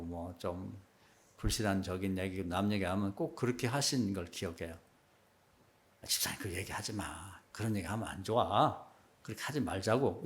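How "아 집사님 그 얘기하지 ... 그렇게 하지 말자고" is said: soft, low-key mild admonition; gentle dissuading. Retold or imitated. Older church member to gossiping deacons, gently dissuading. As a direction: gently talk them out of it, softly.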